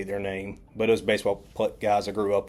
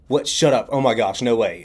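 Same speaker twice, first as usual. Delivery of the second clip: loud, amazed outburst; imitated disbelief; 2 semitones higher, 6 dB louder than usual. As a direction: act out her astonished reaction. Classmate reacts in disbelief.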